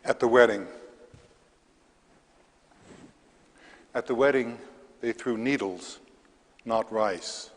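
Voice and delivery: measured verse with pauses between lines; poetry reading. Acted. Poet reads to a library audience, measured poetry reading. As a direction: read the poem aloud, each phrase set apart. Reads own poem aloud.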